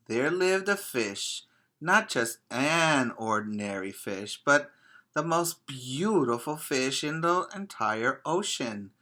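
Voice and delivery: gentle storybook narration for little ones; sing-song picture book reading; reading to children. A narrator's reading. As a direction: read it like circle time.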